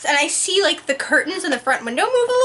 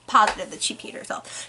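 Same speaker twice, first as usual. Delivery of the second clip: a voiceless whisper, much softer; whispered aside; 8 semitones lower, 5 dB quieter than usual. Real, not acted. Joking mom peed herself.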